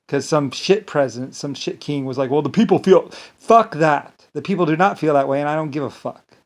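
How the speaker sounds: heated, forceful outburst; indignant and punchy; angry rant. Real, not acted. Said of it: "Get all angry".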